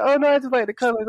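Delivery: put-on high, quick, innocent old lady voice; squeaky put-on female voice. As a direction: imitate a lady's hurried excuse. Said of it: "like, this old lady comes on".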